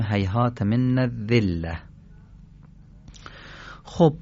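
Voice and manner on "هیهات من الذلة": careful doubled interdental dh in الذلة; Arabic dhal in الذلة. Shown as a demonstration. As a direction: model الذلة with a delicate tongue-tip "dh". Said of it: "پس باید بگیم".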